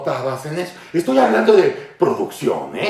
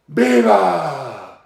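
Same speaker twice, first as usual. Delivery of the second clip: mock echo; 4 semitones lower than usual. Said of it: "y después se oía".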